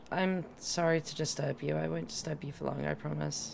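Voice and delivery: drowsy, barely awake voice; half asleep. Real, not acted. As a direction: sound half asleep and soft. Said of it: "you sound like you're half asleep".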